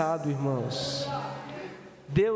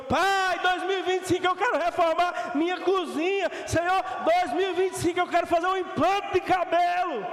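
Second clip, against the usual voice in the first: shouted mock prayer; 6 semitones higher than usual. Pastor joking about his own hair, shouting a mock prayer. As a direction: shout the joke prayer for effect.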